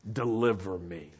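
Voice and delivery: low, softly falling prayer; hushed, earnest acted prayer; heartfelt plea. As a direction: plead quietly from the heart. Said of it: "powerfully coming from his heart".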